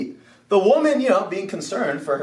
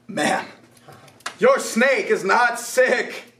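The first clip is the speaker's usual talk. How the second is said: grave vet warning; 4 semitones higher than usual. Retold or imitated. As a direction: deliver the twist like a stern vet. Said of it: "The veterinarian goes".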